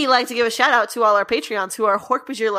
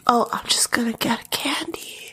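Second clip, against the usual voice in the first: unvoiced close whisper; ASMR whisper; 2 semitones lower than usual. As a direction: whisper right into the mic. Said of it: "A S M R".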